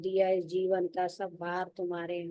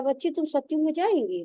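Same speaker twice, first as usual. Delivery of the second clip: a gentle, coaxing Baba with higher pitch; lightly voiced Baba; 7 semitones higher than usual. Baba gently questioning the sister about the Golden Age, coaxing.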